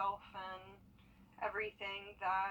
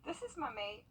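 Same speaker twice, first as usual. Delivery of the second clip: playful Aussie accent, pitched up; Aussie accent, chatting to her pet lizard; 6 semitones higher than usual. Shown as a demonstration. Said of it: "I always talk to him in an Aussie accent".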